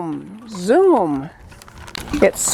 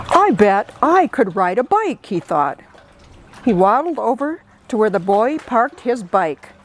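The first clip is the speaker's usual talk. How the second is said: put-on lively read-aloud for kids; storytime reading. Librarian reading a picture book to children, lively. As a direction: tell it like a picture book to little ones.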